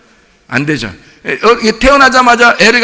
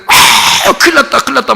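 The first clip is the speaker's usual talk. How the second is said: gasp, then higher-pitched worry; mock parental alarm; 5 semitones higher than usual. Preacher voices parents watching their teenager, mock alarm. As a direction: act out a panicked parent. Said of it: "여러분이 볼 때는".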